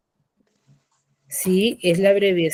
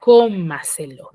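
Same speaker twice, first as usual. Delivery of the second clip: cómaselo with a loud, punched CÓ; stress on first syllable; 5 dB louder than usual. Shown as a demonstration. Teacher's example of a sobresdrújula, cómaselo stressed on its first syllable. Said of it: "la mayor fuerza de voz en la anterior a la antepenúltima".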